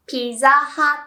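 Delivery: Pizza Hut as piza hatto, pause before to; loud, measured Japanese Pizza Hut; Japanese pronunciation. Shown as a demonstration. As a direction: model Pizza Hut with pi-za and hat-to. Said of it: "we say".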